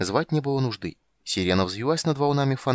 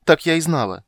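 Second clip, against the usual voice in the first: much higher, louder indignant squeal; shrieking siren; 9 semitones higher, 8 dB louder than usual. Acted. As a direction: shriek it in outrage. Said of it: "взвизгнула Сирена".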